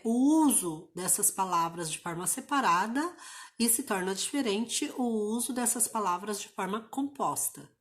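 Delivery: ordinary delivery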